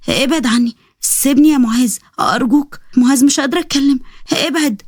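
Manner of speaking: drugged, pleading to be let go; a touch of helpless begging; weak pleading. Acted. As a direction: plead with the little strength left, mildly. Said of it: "بتترجاني".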